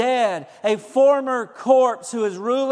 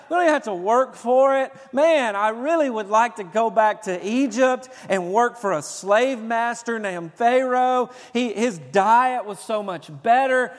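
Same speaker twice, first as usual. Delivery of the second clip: complaining Israelites, a bit louder; mock whining Israelites; 2 semitones higher, 5 dB louder than usual. Preacher mimics Israelites griping about manna, mock whine. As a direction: whine like grumbling Israelites in the desert. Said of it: "they began to whine, and they began to complain".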